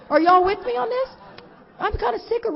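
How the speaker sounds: rally the room; calling out to audience. Real, not acted. Speaker turning to the audience, loud appeal. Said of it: "calling out to the audience".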